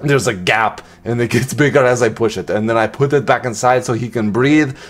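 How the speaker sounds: light mock Austrian accent; amateur Austrian-accent impression of an action star; Arnold Schwarzenegger accent. Vlogger showing off toys from a box, mock Austrian accent. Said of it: "in an Arnold Schwarzenegger accent".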